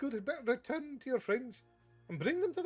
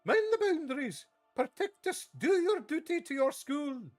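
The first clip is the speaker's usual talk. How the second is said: much higher, louder battle orders; rallying commands; 14 semitones higher, 6 dB louder than usual. Acted. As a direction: command an army of stone. McGonagall commanding statues.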